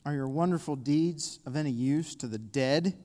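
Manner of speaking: measured psalm question; slow reading. Real, not acted. Preacher reads the psalmist's question to God, slowly. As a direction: put the question to God, unhurried. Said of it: "I want to read them slow".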